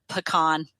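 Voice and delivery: PECAN as puh-KAHN, stressed on KAHN; majority pronunciation. Shown as a demonstration. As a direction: say pecan with a short first syllable, puh-KAHN. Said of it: "seventy percent of Americans pronounce it".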